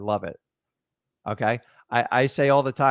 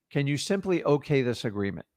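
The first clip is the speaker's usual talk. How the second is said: good phrasing; 5 dB quieter than usual. Shown as a demonstration. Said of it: "I like the word agreement".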